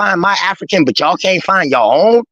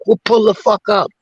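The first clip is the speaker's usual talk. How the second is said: angry challenge; 5 semitones higher than usual. Real, not acted. Heated challenge during the argument.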